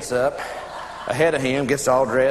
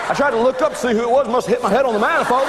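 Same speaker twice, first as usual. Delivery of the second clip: fast, higher-pitched acted account; rushed explanation; 5 semitones higher, faster than usual. Neighbor explaining how he hit his head, rushed. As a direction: rattle off what happened.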